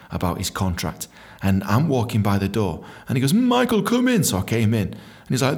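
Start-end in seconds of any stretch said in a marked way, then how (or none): 3.3-4.2 higher, mock summons; a hint of a boss's sing-out; imitated boss calling. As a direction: call him in, lightly put on. Boss calls him into the clinic.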